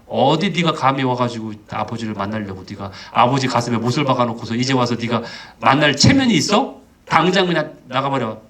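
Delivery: mild acted telling-off; scolding. Older brother driving the prodigal away, mildly acted scolding. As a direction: scold indignantly without raising the voice. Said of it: "막 혼내고 때리든가 해가지고".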